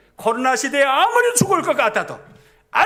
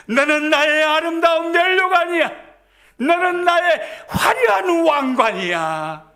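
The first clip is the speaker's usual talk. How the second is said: higher, slow and tender, a loving promise; voicing God tenderly; 6 semitones higher than usual. Preacher voicing God's promise to the congregation, tender and slow. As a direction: speak God's words to His beloved as a gentle promise. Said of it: "하나님은 우리들에게 이렇게 말씀해 주십니다".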